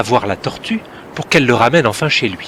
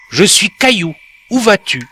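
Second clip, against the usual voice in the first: little pebble; 7 semitones higher, 4 dB louder than usual. A narrator's reading. Pebble introduces itself.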